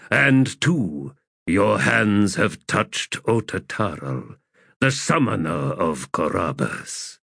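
slow, grave urging voice; lightly voiced ancient god; solemn elder god.

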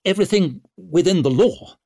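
high, loud anxious squeak. A narrator's reading. Bruckle reminding the powerful lady of the law, squeaking. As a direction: squeak it out, pitch jumping up. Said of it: "squeaked Bruckle".

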